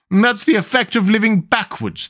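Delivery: high, gentle queen explaining; kindly. A narrator's reading. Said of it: "the Queen said kindly".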